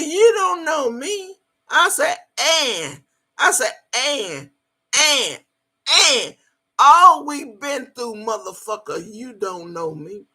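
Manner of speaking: high, loud, slowed pleading, fading at the end; indignant plea. Retold or imitated. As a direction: insist he must know her, voice climbing. Pleading with former lover.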